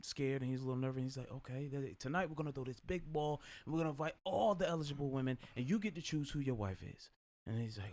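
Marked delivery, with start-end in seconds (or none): 1.3-7.1 Jamaican king's voice. Retold or imitated. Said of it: "Your accent is uncanny".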